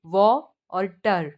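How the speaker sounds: वाटर broken into व और टर, a gap between; split into syllables. Shown as a demonstration. Teacher counting syllables in water, व and टर said apart. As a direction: sound out व, then टर, as two separate syllables. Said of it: "ये हो गए दो syllable".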